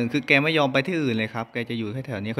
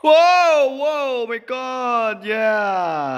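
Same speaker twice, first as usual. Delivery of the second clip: higher, louder drawn-out wow; excited exclamation; 8 semitones higher, 4 dB louder, much slower than usual. Real, not acted. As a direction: cheer out in amazement. Amazed at game event. (อุทานตื่นเต้นเสียงสูงดัง)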